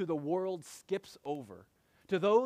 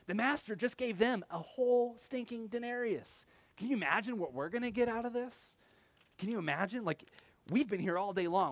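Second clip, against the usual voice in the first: eager workers; 5 semitones higher than usual. Retold or imitated. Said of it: "They're like".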